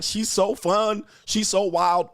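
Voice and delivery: a lightly hammed-up delighted onlooker; slow, fawning mock admiration; mock gushing. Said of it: "all the white people are like".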